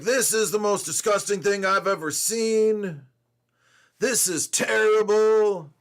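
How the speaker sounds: half-hearted retold outrage, pushing on terrible; mock angry customer.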